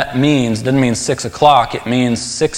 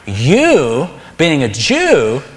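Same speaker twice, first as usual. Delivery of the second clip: "You" and "Jew" drawn out slowly, each punched; stress on YOU and JEW; much slower than usual. Shown as a demonstration. Preacher showing the Greek emphasis, heavy stress on "You" and "Jew". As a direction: stretch and lean hard on "You" and "Jew". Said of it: "emphasis is on the word you and Jew".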